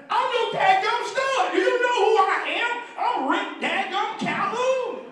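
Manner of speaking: imitating a cocky recruit's outraged reply; indignant boast. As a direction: puff yourself up, stretch out the name proudly.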